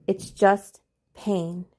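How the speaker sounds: slow, calm and steady; name it gently and slowly; calm label. Shown as a demonstration. Calming herself in her panic, slow and steady. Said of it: "I labeled it".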